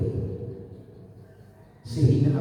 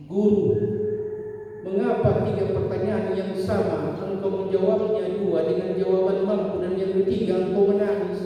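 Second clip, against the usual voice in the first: pupil asking; 7 semitones higher than usual. Acted. Pupil asks his weeping teacher why, high and urged. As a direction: ask the teacher earnestly, raised high.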